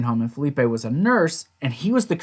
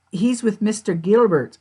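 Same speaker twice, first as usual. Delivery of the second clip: put-on old lady; 6 semitones higher than usual. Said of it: "She's like".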